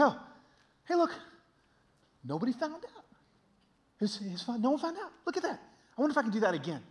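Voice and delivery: high-pitched, lightly acted relief at getting away with it; sneaky self-reassurance. Man telling himself nobody found out, sneakily pleased.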